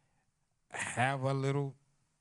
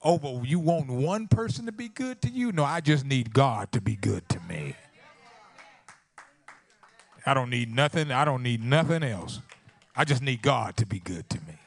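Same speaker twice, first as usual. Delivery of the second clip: preach; 3 semitones higher, 8 dB louder than usual. Real, not acted. Preacher warning the congregation against holding grudges, loud preaching. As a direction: drive it home to the congregation in a raised voice.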